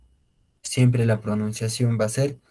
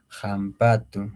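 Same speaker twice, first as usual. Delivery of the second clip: slow, careful pronunciation; much slower than usual. Shown as a demonstration.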